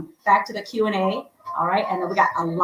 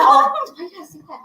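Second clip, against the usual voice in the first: laughing at herself; 10 semitones higher, 5 dB louder than usual. Real, not acted. Laughing at her own slip.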